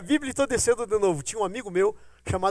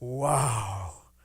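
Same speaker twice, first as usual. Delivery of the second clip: amazed wow; 10 semitones lower than usual. Retold or imitated. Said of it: "Aí eu falei".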